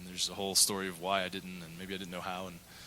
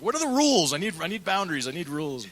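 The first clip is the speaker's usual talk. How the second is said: much higher and louder, mock panicked pleading; 10 semitones higher, 7 dB louder than usual. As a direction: play up a flustered demand for rules. Retells asking counselor for rules.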